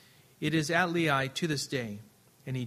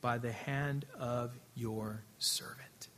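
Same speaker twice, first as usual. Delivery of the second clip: whisper; 5 semitones lower, 9 dB quieter, slower than usual. Shown as a demonstration. Preacher hushes verse ending.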